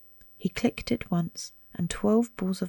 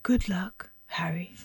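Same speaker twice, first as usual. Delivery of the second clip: murmured. Acted. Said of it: "he murmured".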